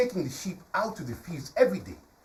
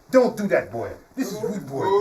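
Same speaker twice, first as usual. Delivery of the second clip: firm, raised-voice telling-off; acted crowd reprimand; villagers scolding; 2 semitones higher, 4 dB louder than usual. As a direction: scold a naughty boy. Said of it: "the villagers tell them".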